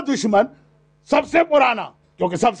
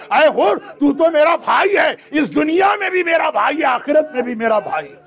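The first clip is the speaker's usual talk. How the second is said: impassioned cry; 3 semitones higher than usual. Acted. Hussain embraces Hurr, climax.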